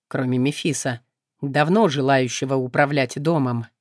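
low, calm, detached voice; indifferent demon. Acted.

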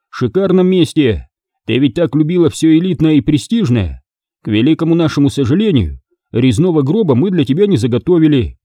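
mock-soothe the victim, lightly in character; mocking abductor.

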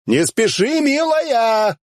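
put-on teasing shout after the girl; calling after her. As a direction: shout it after the fleeing woman. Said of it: "закричал я ей вслед".

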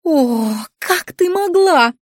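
high shrill shriek of dismay; the governess is scandalised, a high slow wail. A narrator's reading. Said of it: "завизжала она".

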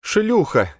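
high, loud venomous cry; bitter outburst. A narrator's reading. Elfrida to Flapping Eagle, spitting a bitter insult. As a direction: spit the insult at him.

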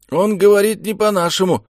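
ordinary delivery, nothing marked

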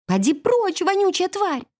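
high scornful brush-off; disgusted shout. A narrator's reading. Blonde snaps at the filthy beggar, scornful. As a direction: shoo him away in disgust.

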